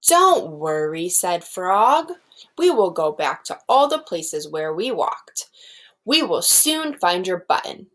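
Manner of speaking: put-on lively read-aloud for young children; storybook reading. Teacher reading Frog and Toad aloud to her class. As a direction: read it like a picture book to a class.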